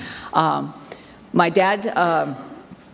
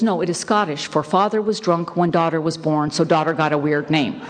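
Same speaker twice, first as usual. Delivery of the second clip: retold punchline with a laugh. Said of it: "He goes".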